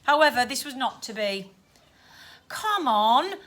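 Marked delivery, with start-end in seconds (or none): 2.5-3.4 mild, drawn-out moan; lightly whining Cockney plea. Acted. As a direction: coax with a weary moan. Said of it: "the ghost moaned".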